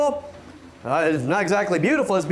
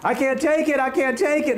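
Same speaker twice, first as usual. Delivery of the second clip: mock whiny drama queen; 5 semitones higher than usual. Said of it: "sponge boys have been raised to be drama queens".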